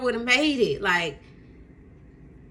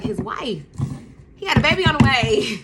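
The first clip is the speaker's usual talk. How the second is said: put-on spells out the shock, louder on the baby line; exasperated emphasis; 3 semitones higher, 5 dB louder than usual. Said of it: "And I was like".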